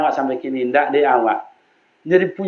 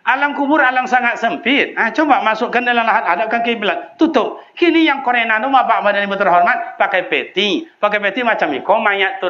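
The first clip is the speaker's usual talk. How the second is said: raised pulpit fervour, pitch soaring; fervent preaching; 9 semitones higher than usual. Acted. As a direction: paint the narrow grave with urgency. Vivid grave description, high pitch.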